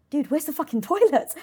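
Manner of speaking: high, loud, half-laughing yell at the waiter; retold frantic yell. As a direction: blurt it out in a panic, laughing. Frantic search for the restroom.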